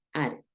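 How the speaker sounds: soft "Added" with a tapped D; ED as full syllable. Shown as a demonstration. Teacher models a D-ending verb, "Added" with sounded ED. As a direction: say "Added" low and soft, close to "ared". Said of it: "lo vas a pronunciar básicamente igual".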